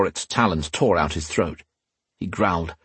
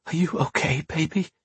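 soft, higher, tender whisper; 7 semitones higher, 5 dB quieter than usual. A narrator's reading. Catherine hugging the crying girl, whispering. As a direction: whisper it gently to comfort a child. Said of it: "she whispered".

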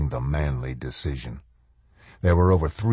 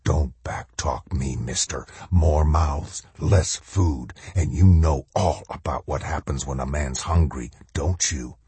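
shadow soldier voice; 3 semitones lower than usual. Acted. Shadow soldier scolds Macklin.

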